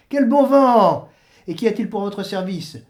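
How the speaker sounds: voix plus aiguë, accueil enjoué; le saint qui reconnaît un vieil ami; Saint-Pierre jovial. Acted. (Saint-Pierre jovial et aigu)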